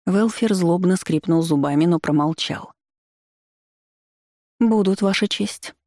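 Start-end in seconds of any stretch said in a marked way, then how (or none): 4.6-5.7 higher, slow, ringing voice; ringing silvery voice. A narrator's reading. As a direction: let it ring out clearly and slowly. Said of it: "серебристый звучный голос Малики".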